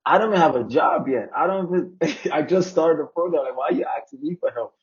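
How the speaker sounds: retold, half-laughing bewilderment; incredulous protest. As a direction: protest like you can't believe they asked you. Acts own disbelief at being asked.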